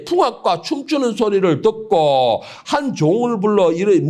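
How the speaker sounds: solemn scripture reading voice. Acted. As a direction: read the verse with weight. Reads scripture aloud.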